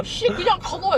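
annoyed grumble. Retold or imitated. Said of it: "이러면서 짜증내고".

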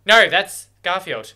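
loud, slowed delighted correction; excited recognition. Real, not acted. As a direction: fan spotting a favourite actor. Recognizing Garfield.

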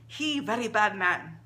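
rough, scratchy Rosa voice, broken English; a light sandpaper rasp on each word; sandpapery voice. Acted. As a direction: rasp it out like an old shopkeeper. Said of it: "in her sandpapery voice".

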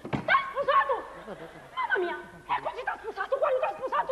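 incredulous laughing questions, pitch up; half-laughing outrage at the news; laughing disbelief. Acted. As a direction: laugh through the shock. Shocked news of secret wedding.

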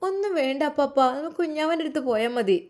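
put-on child saying she only wants to see the baby; little girl. Child refuses sweets.

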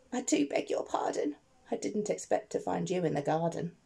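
a hushed, sheepish sorry in a quiet voice; soft apology. Acted. Digger quietly begs the miner's pardon, soft. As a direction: apologise softly, almost under the breath.

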